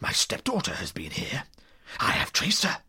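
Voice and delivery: rough-edged, seething villain; angry old bully, holding back before the outburst; menacing accusation. Acted. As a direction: accuse them with held-in rage.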